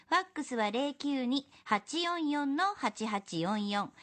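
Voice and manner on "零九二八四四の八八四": slow, even number dictation; dictating. Acted. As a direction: read the number slowly for notes. メモしてくださいね.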